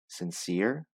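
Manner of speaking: "sincere" repeated with lifted weight; stress on sincere. Shown as a demonstration. Teacher pointing out stressed word: stress on "sincere". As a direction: lean on "sincere". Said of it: "the stress is on this".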